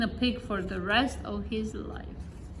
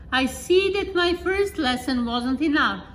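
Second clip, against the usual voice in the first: wizard scolding; 4 semitones higher, 4 dB louder than usual. Acted.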